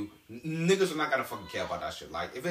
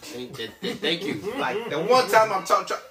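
trying not to laugh; 2 semitones higher, 5 dB louder than usual. Real, not acted. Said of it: "The one time I wanna be serious".

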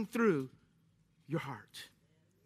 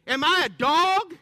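giant taunting; 3 semitones higher, 5 dB louder than usual. Retold or imitated. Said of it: "Goliath said".

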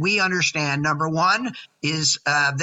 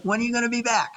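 imitating wife; 7 semitones higher, faster than usual. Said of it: "She's like".

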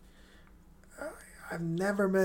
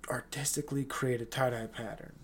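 whisper; 6 dB quieter than usual. Real, not acted. Bragging aside about his tie-dye.

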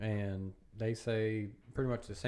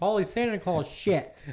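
put-on exclamation; 8 semitones higher, 6 dB louder than usual.

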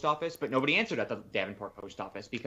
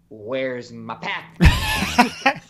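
mock demand; 12 dB louder, much slower than usual. Retelling a complaint call.

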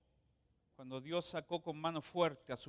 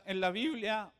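voice cracking; 3 semitones higher, 4 dB louder than usual. Real, not acted. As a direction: voice cracks on Biblia. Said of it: "me salió un gallo".

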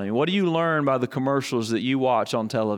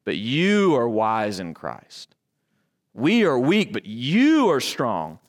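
sarcastic; 4 semitones lower, slower than usual. Retold or imitated. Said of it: "Get his sarcasm".

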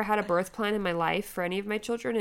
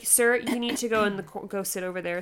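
lightly imitated bossy order; bossy, not nice. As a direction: curtly send him to the corner. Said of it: "that's her tone".

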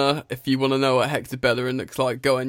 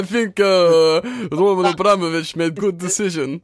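mock Russian accent; 5 semitones higher, 5 dB louder than usual. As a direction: put on a comic Russian accent. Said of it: "Russian's very different".

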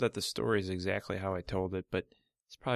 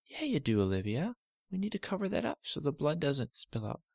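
lightly voiced, slightly higher soothing dad; dad calming his daughter; 6 semitones higher than usual. Father calming Olivia about her cut toe, gentle. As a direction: gently reassure the hurt girl.

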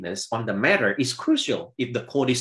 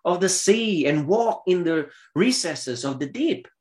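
God's challenge; 7 semitones higher than usual. Acted. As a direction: thunder the first words like God. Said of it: "God says".

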